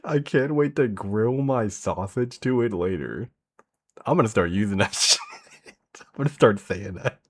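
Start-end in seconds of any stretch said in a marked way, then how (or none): 0.0-3.3 savoring repeat. Retold or imitated. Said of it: "never heard anyone say that shit".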